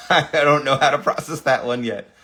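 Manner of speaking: laughing in disbelief; astonished, talking through a laugh; amazed laughter. Real, not acted. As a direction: break into a laugh while marvelling. Amazed reaction to the sung clip.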